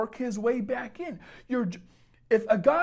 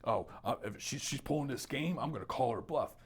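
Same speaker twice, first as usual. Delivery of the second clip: smug guy's thoughts; 7 semitones lower, 7 dB quieter than usual. Retold or imitated. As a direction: play the cocky boyfriend thinking it over. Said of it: "him thinking".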